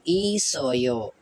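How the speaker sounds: each syllable of ई सो यो said slowly and separately. Shown as a demonstration. Teacher spelling out a Korean word slowly for students. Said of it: "vowel है यो".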